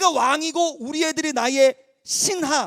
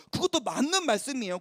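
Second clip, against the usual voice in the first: ordinary delivery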